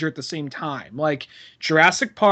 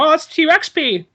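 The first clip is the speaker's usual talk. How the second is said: high-pitched pretend excitement; mock discovery; 9 semitones higher, 4 dB louder than usual. Acting out a movie character finding dinosaur pee, mock excitement. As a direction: pitch it up like a thrilling find.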